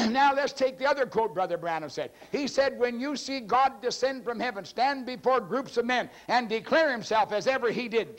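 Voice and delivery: high-pitched, driving preacher delivery; sermon proclamation pitched well up; impassioned preaching. Real, not acted. Preaches a quotation.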